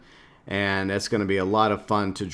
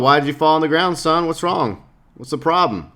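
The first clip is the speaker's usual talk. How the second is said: concerned citizen; 5 semitones higher than usual. Retold or imitated. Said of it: "obviously a concerned citizen".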